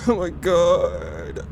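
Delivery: breathless laughs of disbelief and relief; half laughing, half sobbing with joy; overjoyed laugh-cry. Real, not acted. Relieved after beating the challenge.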